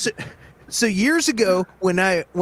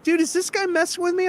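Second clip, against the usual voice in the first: retold question; 12 semitones higher than usual. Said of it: "I was like".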